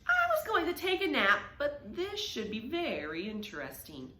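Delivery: a hint of a lazy cat voice; lightly voiced sly cat; mild languid cat thought; cat's thought. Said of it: "what she thought was".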